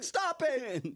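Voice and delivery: high, loud comic protest; Jolly Green Giant. Pretend. Giant to rock-throwing kids, high mock-upset shout. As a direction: shout as a harassed cartoon mascot. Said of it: "He's like".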